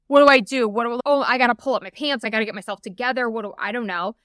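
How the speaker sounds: loud start, then rushed, flustered self-talk; retold panic. Woman as husband knocks on door, flustered panic. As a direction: race through it as if caught unprepared.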